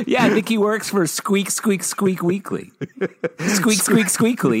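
high, laughing squeaky porpoise voice; rubbery high squeaky toy. Pretend. Joke about a porpoise magazine.

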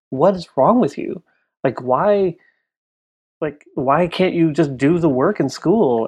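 drawn-out, frustrated pleading as a parent; exasperated scolding parents. Retold or imitated. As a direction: retell a parent's exasperated telling-off. Retold parents scolding at kitchen table.

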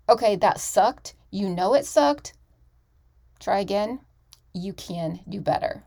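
lightly voiced honest coach; imitating blunt coach. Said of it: "a coach who's gonna say".

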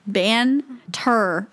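Banter with a full N and T and an er ending; careful Banter. Shown as a demonstration. Explaining how Banter should sound, carefully. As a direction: say every letter in Banter. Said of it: "There's an N, N and a T".

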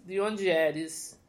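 "De onde eres?" slow, the "onde" leaned on; slow corrected Spanish. Shown as a demonstration. Host correcting her question, slow and careful. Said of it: "Da onde eres".

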